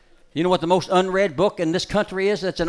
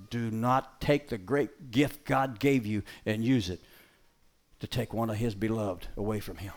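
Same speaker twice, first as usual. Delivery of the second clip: solemn plea; 4 semitones lower, slower than usual. Real, not acted.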